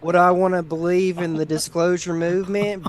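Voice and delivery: exaggerated Southern accent, joking with friend Gary; full Southern accent. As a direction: play up a mock Southern accent for laughs. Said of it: "Let me, let me go full Southern".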